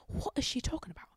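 fast whisper of a puzzled listener; whispered inner thought. Pretend. Voicing the listener's puzzled thought, whispered. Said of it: "thinking to yourself".

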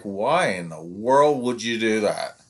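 slow, indignant mock challenge; accusing parent. Parent confronting the coach, slow and indignant. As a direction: drag it out as if calling the coach out. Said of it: "when they come at you like".

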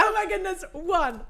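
high, loud celebration; thrilled shout. Real, not acted. Contestant celebrating a first quiz point, thrilled shout. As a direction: cry out in delighted disbelief.

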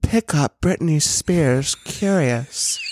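slow store PA announcement; drawn-out shop announcement; customer service voice. Pretend. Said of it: "our best customer service voice".

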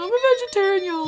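high, loud Texas twang with y'all; Texas accent. Retold or imitated. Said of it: "That was the Texas voice".

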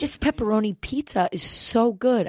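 put-on high, happy little boy; pleased kid. Retelling the kid delighted by his pizza, high happy kid voice. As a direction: gush like a delighted child.

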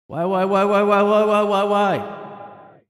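high, loud drawn-out whining; mock wail. Biden whines at the reporter, loud mock wail. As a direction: wail like a cranky old man.

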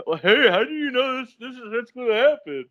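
high-pitched incredulous parent; questioning parent. Pretend. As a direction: imitate a parent demanding an explanation. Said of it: "your parents are gonna ask you".

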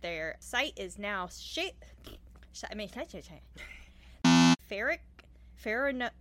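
slow stumbling over words; struggling with hard words; tongue-tied. Real, not acted. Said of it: "all of these little tongue twisters".

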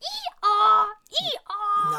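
loud, braying donkey; asked for a donkey noise, loud bray. Shown as a demonstration. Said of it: "make a donkey noise".

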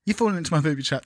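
quick mock Kiwi accent; New Zealand accent. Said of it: "in a New Zealand accent".

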